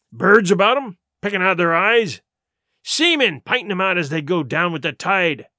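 vehement sea-dog with swinging emphasis; Silver, grimly scornful pirate. Acted. Silver warning his crew of hanging, grimly scornful. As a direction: make the crew dread the gibbet.

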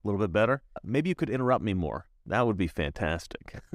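mock-helpful suggestion, lightly sarcastic. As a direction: offer fake helpful advice with understated sarcasm. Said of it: "that kind of sarcasm".

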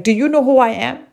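fast, haughty, self-important demand; drunken posh sneer. Retold or imitated. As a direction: sneer it like a pompous snob. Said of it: "you hear people say things like".

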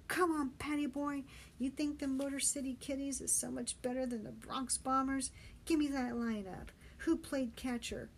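brash call across the water; goading Benny. Acted. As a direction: goad an exhausted friend into answering.

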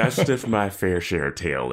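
a lightly voiced cocky rocker, laughing; sleazy Oz parody. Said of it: "he's like".

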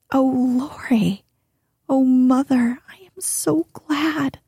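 breathy, rising joyful outcry; joyful cry. Acted. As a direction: overcome with joy at the news. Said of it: "crying out with a joyful cry".

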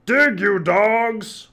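slow, high, loud bellow; Captain Bones crying out. A narrator's reading. Pirate captain ordering his crew to dig, bellowing slowly. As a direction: drag out the angry pirate order. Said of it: "cried Cap'n Bones".

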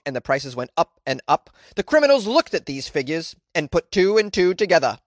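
lightly put-on British accent, reading a quote; switched British accent. Dog charity man explains rising thefts, lightly imitated British accent. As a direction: have another go at a British accent. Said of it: "let me switch gears here".

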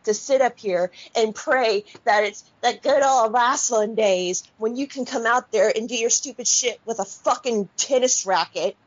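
real angry rant, heavy on the swearing; pissed off. Real, not acted. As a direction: tear into them, indignant and emphatic. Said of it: "that just really pissed me off".

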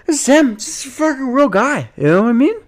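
high-pitched tipsy-sounding insistence; drunk-sounding. Pretend. Podcaster insisting on himself, high and drunk-sounding. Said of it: "Do I sound drunk right now".

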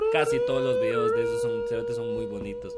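mock falsetto. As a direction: lift it way up in a mock croon. Repite la frase en falsete. (repetirlo en falsete de burla)

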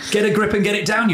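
punchy campaign slogan; slogan delivery. Shown as a demonstration. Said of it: "great thing to, campaign on".

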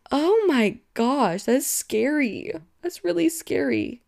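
slow, stunned alarm; horrified reaction. Real, not acted. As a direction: react aghast to something just read. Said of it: "do you hear my reaction to reading".

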